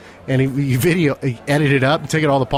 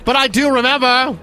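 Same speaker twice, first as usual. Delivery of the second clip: Obama impression; 9 semitones higher than usual. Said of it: "You sound like Kennedy".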